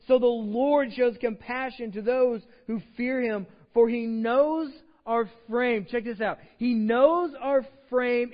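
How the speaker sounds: fervent Bible reading that swells and then slows; preaching scripture. Acted. Reads Psalm 103 with rising force.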